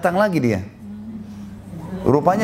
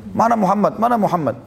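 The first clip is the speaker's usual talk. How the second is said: mock shouting; 5 semitones higher than usual. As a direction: call out bluntly for Muhammad. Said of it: "teriak-teriak".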